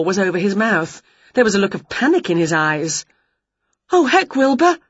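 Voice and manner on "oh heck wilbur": high, louder witch voice; a fretful witch gasp; worried witch. Acted. Witch worried she punched her cat, high voice. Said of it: "said Winnie".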